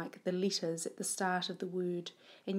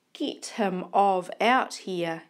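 slow, louder shopkeeper yell; 6 dB louder, slower than usual. Acted. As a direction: shout him out of the shop. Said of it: "yells the bread shop woman".

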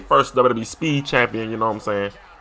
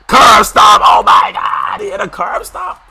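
higher, louder yelps of disbelief; shocked yelling; 9 semitones higher, 7 dB louder, slower than usual. Real, not acted. Gamer yelling in shock at a curb stomp. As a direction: yell it like you can't believe it.

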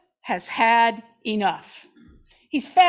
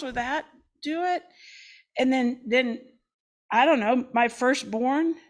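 contrite humanity. Acted. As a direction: fumble for a way to make amends. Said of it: "humanity responds in like manner".

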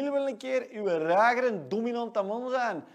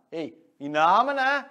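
louder, rising "Namen" hyped up; loud call-out; 2 semitones lower, 7 dB louder than usual. Acted. Jordi hyping his race win, loud rising "Namen". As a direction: punch out "in Namen" like a boast.

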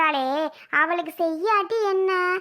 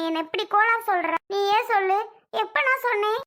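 affronted, high-pitched comeback; indignant denial; 3 semitones higher than usual. Acted. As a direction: pitch climbing in indignant protest. Accused of gossiping, protests.

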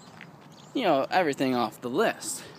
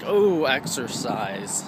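dreading exercise; 4 semitones lower, much slower than usual. Retold or imitated. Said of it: "Now I'm like".

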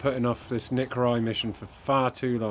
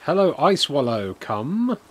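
chat greeting; 4 semitones higher, 7 dB louder, slower than usual. Retold or imitated. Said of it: "He says".

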